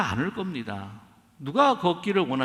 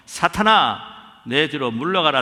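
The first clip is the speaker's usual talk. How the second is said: stern rebuke; 2 semitones lower, 6 dB louder than usual. Acted. Jesus rebukes Satan.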